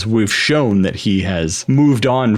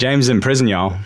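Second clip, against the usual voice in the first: mock Southern accent. Shown as a demonstration. Teasing a cohost with a hammed-up Southern accent. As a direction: lay on a thick Southern twang. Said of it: "only gonna come out southern".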